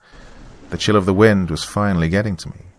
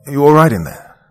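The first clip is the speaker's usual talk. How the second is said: higher, louder call through a door; hesitant concern; 7 semitones higher, 6 dB louder than usual. A narrator's reading. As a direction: check on someone, tentative then raised. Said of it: "Hesitant, I knocked on it lightly".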